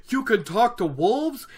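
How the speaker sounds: acted aghast disbelief, pitched high; Perrin. Shown as a demonstration. Perrin dismayed by talking to wolves, acted aghast. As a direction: recoil from the idea, high incredulous question. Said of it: "said Perrin aghast".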